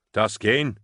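loud searching call. A narrator's reading. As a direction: call a name into the dark. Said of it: "he called".

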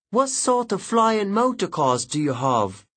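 put-on high curious boy; eager schoolboy asking; young boy voice. Boy Horace asks a question.

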